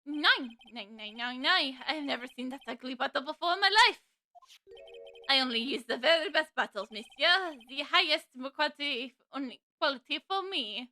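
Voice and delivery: lightly put-on French accent; a hammed-up but faint French chef accent; bad French accent. Chef denying the bottle, in a mild mock French accent. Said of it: "my really bad French accent".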